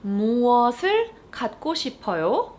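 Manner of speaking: fast Korean question with a rise. Shown as a demonstration. Teacher modeling the question quickly. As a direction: ask it quickly.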